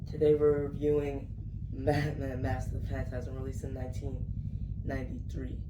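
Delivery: talking through a sick voice; under the weather, voice worn. Real, not acted. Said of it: "Excuse my voice, I'm sick".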